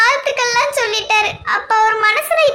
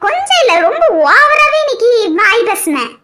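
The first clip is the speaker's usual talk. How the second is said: a laughing, louder teasing second take; laughing repeat, louder; 4 dB louder than usual. Acted. Wife repeats it to her husband, louder and laughing. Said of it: "என்னம்மா சொல்றிய?".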